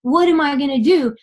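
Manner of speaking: mild mock yell at God; retold angry yelling. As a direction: replay an exasperated demand without really shouting. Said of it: "I'm yelling at God".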